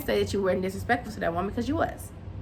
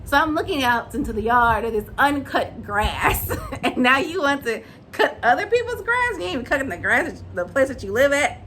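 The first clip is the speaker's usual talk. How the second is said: laughing mock disbelief; lightly voiced mom amused at her son; chuckling incredulous question; Kimmy, laughing; 2 semitones higher than usual. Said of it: "And Kimmy's like".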